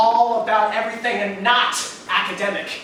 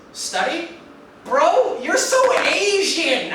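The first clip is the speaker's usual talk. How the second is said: loud, high teasing bro voice; lunch-table friend mocking him as a banana; mocking taunt; 10 semitones higher, 6 dB louder, slower than usual. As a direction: jeer at him, pitched up and loud. Friend mocking his refusal.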